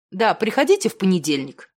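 plain reading voice

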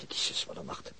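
breathy, spent whisper of a sigh; exhausted near-whisper; weary sigh. Acted. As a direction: let the night's fatigue out under your breath. Weary sigh after long night.

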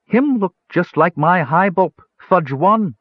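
high-pitched, simple-minded creature voice; sighing gully dwarf. A narrator's reading. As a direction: pitch it well up, like a small awed dwarf. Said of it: "Bupu sighed".

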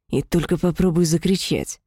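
hissed demon threat; demonic whisper. Acted. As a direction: hiss it like a menacing demon. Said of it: "прошипел демон".

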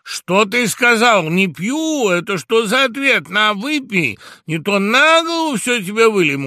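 high, loud mock threat; bully him into drinking; threatening. Tamada loudly threatens the refusing mouse. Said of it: "угрожающе проговорил Тамада".

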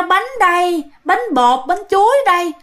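brief mock street cry; imitated vendor's cry. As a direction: quote the cake seller's call. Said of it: "xong cái bà rao".

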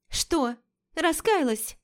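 sarcastic. Acted. Лика язвит, медленно.

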